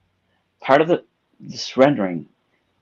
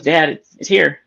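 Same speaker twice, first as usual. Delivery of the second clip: excited daughter; 6 semitones higher, 7 dB louder, slower than usual. Retold or imitated. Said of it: "She goes".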